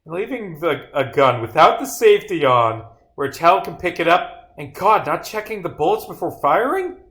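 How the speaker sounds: high-pitched rant after a loud opening cry; outraged disbelief. Acted. Officer appalled by the reckless gun trick, outraged high-pitched rant.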